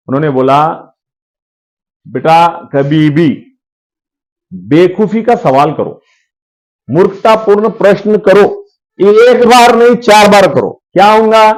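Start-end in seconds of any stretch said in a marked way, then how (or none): 2.1-10.8 slow, drawn-out imitated guru advice; guru's counsel. Retells his guru's advice to him. (गुरु की धीमी, ठहरी हुई सीख)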